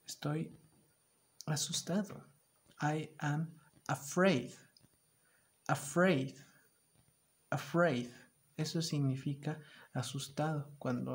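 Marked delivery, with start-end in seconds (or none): 0.1-2.2 whispered, then a scared rising word; hammed-up fright; mock scared. Shown as a demonstration. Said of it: "¿Qué estoy?". 2.8-8.1 mock fear. Shown as a demonstration. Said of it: "¿Qué estoy?".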